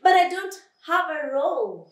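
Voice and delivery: high, loud wail of mild despair; sad. Acted. Lion telling flea he has no roar, sad. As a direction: lament it, pitched high. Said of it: "said Lion sadly".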